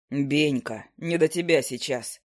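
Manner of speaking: a grumpy bird drawling down low; low owl familiar. Acted. Narrator voices the owl familiar.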